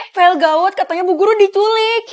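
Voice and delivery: alarmed news. Acted. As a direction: blurt out the emergency to a friend. Urgent news of teacher's kidnapping.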